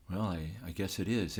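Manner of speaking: retold meek concession, softened. Photographer answering an insult in the lobby, retold meek reply. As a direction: give in meekly, a bit quietly. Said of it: "I just meekly said".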